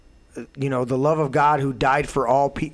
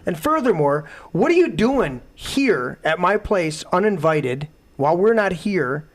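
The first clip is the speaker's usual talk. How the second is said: fast, higher and louder tirade; retold yelling; 5 semitones higher, 4 dB louder than usual. Scolding the girl who trashed his place, furious yelling. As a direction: tear into her, word after word. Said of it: "and I lit into her".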